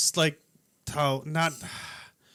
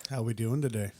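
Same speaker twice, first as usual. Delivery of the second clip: put-on voice; 8 semitones lower, 5 dB quieter than usual. Goofy greeting bit.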